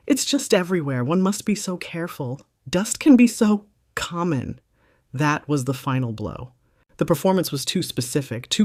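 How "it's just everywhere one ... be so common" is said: a little higher and louder, mock-worried society lady; mock concern. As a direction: put on fake concern about the dust, carrying across the room. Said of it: "loud, clear, and deeply concerned whisper".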